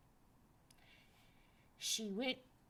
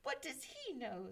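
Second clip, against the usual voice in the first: a hint of cheeky laughter; tossed-off mocking boy voice; mischievous boy; 9 semitones higher, 5 dB louder than usual. A narrator's reading. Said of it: "said Jack, laughing".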